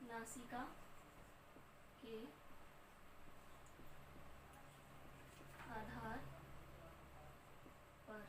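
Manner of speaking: soft, halting, word by word; slow dictation. Real, not acted. Teacher writing the heading for the class, slow dictation. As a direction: murmur it piecemeal with long gaps.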